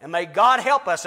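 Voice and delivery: full-force pulpit preaching, stirred up. Real, not acted. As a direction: preach it hard with rising fervor. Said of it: "I'm preaching now, I'm not teaching".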